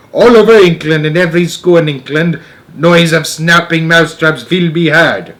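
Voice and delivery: gloating witch orator; Grand High Witch. Acted. Grand High Witch rallying her audience of witches, gloating. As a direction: relish every disaster as you announce it.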